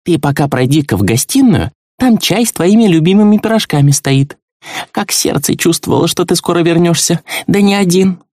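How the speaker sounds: put-on a fond old hostess inviting a guest in; voiced high as a caring old woman; kindly old woman.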